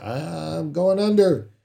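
a slow, high, drawn-out cry of sinking; desperate thought. Retold or imitated. To the congregation, imagining someone in trouble: slow, high despair. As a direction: let it sink as you say it. Voicing a drowning person's despair.

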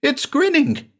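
high frightened cry. Acted. Patient seeing the phantom house grin, high frightened cry. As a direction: cry it out in horror. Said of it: "he cried".

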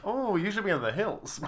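mock British accent. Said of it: "problem with the accent".

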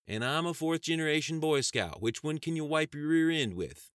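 loud, high scornful comeback; irritated retort. Acted. Sheriff mocking the Attorney General's title, irritated. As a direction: throw it back at her loudly. Sheriff snaps back at secretary.

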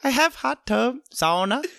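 lightly put-on Indian accent. Character luring a guest home, Indian accent. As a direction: offer it with an Indian lilt. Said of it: "He sounds a little Indian".

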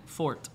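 "Fort" with the final T barely released; "Fort" ending softly, T hardly there; almost silent T. Shown as a demonstration. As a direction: say "Fort" swallowing the T. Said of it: "la T casi no se pronuncia".

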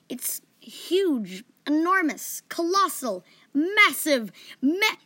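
escalating, hammered list of superlatives; building emphasis. A narrator's reading. Piling up words for giant.

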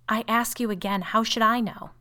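high, loud, insistent; exasperated retort. A narrator's reading. Sister refuses to explain the shadow, exasperated. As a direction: throw it back, exasperated.

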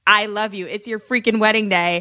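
worked-up, insistent mock declaration; said out loud, audibly. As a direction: declare it aloud as if showing him how. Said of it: "he can tell his friends audibly".

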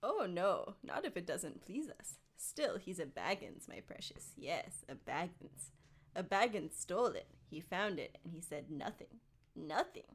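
lightly theatrical grudge, sinking towards a whisper; understated stagey creature nursing a grievance; Gollum, brooding. Acted. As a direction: mutter it to yourself, partly whispered. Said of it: "a theatrical voice".

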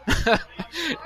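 short laugh at his own story; amused laugh. Real, not acted.

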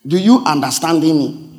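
wrong usage, mocked. Shown as a demonstration. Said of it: "You don't say".

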